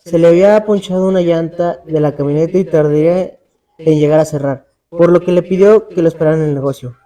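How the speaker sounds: measured read-aloud storytelling with pauses between phrases; horror story narration. A narrator's reading. Podcaster telling a friend's ghostly canal encounter, scary-story narration. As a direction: narrate an eerie true account, phrase by phrase.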